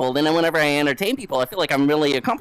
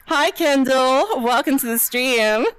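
high, drawn-out sweet hello; cutesy greeting; 7 semitones higher, slower than usual. Pretend. Streamer welcoming Kendall to the stream, high cutesy greeting.

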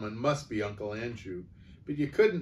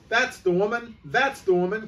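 high, loud accusing shout; outraged shopkeeper yelling for the police; fat man crying out; 10 semitones higher, 6 dB louder than usual. Acted. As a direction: point and shout at the thief. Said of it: "cried the fat man".

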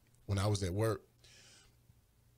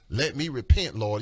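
said again louder for the mic; louder repeat; 3 semitones lower, 5 dB louder than usual. Shown as a demonstration. After being told to turn the mic up, a louder repeat. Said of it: "Turn your mic up".

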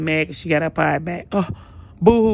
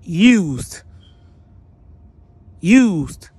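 angry callout; 5 dB louder than usual. Real, not acted. Angry callout, repeated word.

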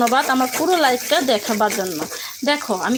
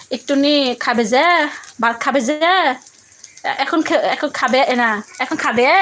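put-on light Chittagonian accent, sing-song rises; a lightly imitated Chittagong way of talking; Chittagonian dialect. Cook on a live stream shows viewers how Chittagong people talk, lightly imitating the Chittagonian accent. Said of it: "মানে ওরা এইভাবে কথা বলে".

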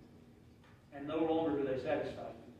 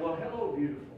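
husband lovingly greeting his wife at the door; delighted greeting. Retold or imitated. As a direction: greet her like she lights up the room. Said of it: "I said".

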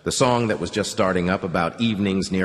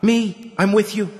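firm, pitched-up pledge; high resolute Anya; 11 semitones higher, 3 dB louder than usual. A narrator's reading. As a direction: step up and commit. Anya volunteers.

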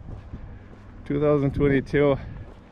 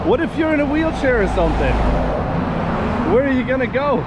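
exasperated rant; 9 semitones higher, 3 dB louder, faster than usual. Real, not acted. Ranting at hostile road for walkers.

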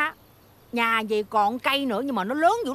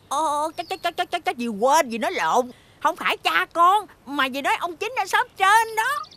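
high, stammering cover-up; flustered backpedaling; 6 semitones higher than usual. Acted. Aunt caught in a slip, hastily denying to niece, flustered. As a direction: scramble to take it back.

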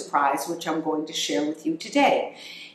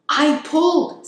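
much higher, louder proud squeak; proud hamster voice; 10 semitones higher, 6 dB louder than usual. Acted. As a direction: crow it like a proud little hamster.

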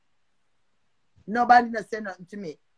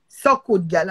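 mocking jeer; 3 semitones lower, 8 dB louder than usual. Real, not acted. Mocking rival in rant.

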